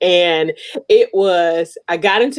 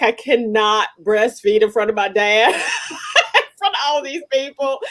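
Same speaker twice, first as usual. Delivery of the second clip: laughing; 4 semitones higher than usual. Retold or imitated. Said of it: "I was like".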